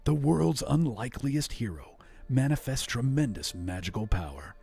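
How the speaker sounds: dramatic movie trailer narration. Shown as a demonstration. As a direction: sell it like a film trailer announcer. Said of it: "movie trailer voice for this one".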